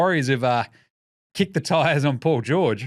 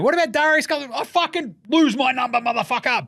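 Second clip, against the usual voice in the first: exasperated voice; 10 semitones higher than usual. Retold or imitated. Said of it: "And then they call him again".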